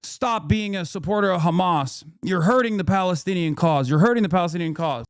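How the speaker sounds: mock heckling, pushed and repetitive; imitated yelling. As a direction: imitate someone hectoring from a distance. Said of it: "filming from afar and yelling still".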